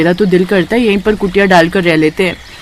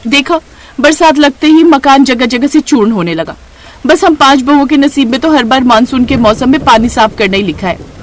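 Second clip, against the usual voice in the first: irritated grumbling; 3 semitones higher than usual. Acted. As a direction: grumble at the leaking house. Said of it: "रुचि झुंझलाकर". (झुंझलाकर शिकायत)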